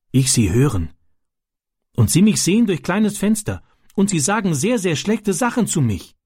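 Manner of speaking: put-on high-pitched, halting boy in broken German; Ram, a foreign boy. A narrator's reading. Foreign boy telling his friend about the gang, high and halting.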